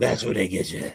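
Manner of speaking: deep voice dropped down low. Retelling a man's next remark, imitating how he deepened his voice. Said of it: "he deepens his voice when he says it".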